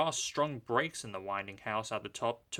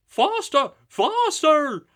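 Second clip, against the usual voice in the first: much higher, louder urgent cry; grumbling trucks; 13 dB louder, slower than usual. A narrator's reading. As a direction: urge each other on. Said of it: "they grumbled".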